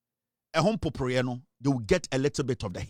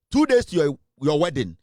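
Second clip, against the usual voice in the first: angry shout; 6 dB louder than usual. Real, not acted. Host threatening a man over his secrets, shouting. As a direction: bark it out as a threat.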